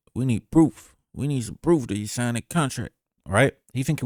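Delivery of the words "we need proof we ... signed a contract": put-on Memphis-accented voice. Acting out what a man was thinking about a contract, imitating a Memphis accent. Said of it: "I don't know if I can do the Memphis accent".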